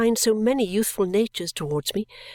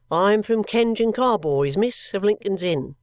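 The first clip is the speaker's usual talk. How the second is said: put-on young clerk voice. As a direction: announce yourself like a polite clerk. Young clerk addresses Esther.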